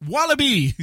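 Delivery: high, playful Australian stereotype; mock Australian accent. Co-host listing Australian stereotypes, mock Australian accent. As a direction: call it out high like a cartoon Australian. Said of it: "stereotypes can I say?".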